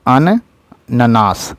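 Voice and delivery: अन्ननाश said slowly with a clear double न; अन्ननाश drawn out, slow, careful; slow careful spelling. Shown as a demonstration. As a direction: sound out अन्ननाश syllable by syllable, unhurried. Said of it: "अन्ननाश ऐसे होता है".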